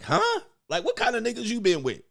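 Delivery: squeaky high huh then fast rattled question; shocked disbelief. Retold or imitated. Man shocked by what she likes in bed, squeaking high and baffled. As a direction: sound floored and baffled.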